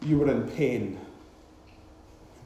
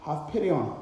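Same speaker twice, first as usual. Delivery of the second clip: crying out; 2 semitones higher than usual. Acted. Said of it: "They cry out to the one".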